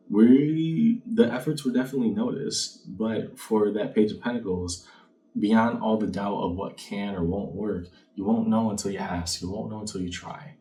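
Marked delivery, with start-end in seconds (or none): none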